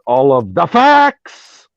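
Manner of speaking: register jumps up on the last words; voice rising on a yell. Real, not acted. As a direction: let exasperation push the voice upward. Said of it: "when you yell, you're not supposed to raise your register".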